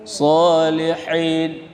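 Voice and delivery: "Salihin" slow with a throaty hi; throat h. Shown as a demonstration. Teacher showing the throaty h in salihin. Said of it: "bukan salihin".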